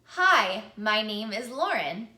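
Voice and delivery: a loud, bold hello. Shown as a demonstration. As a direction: say it out with confidence. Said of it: "One more time".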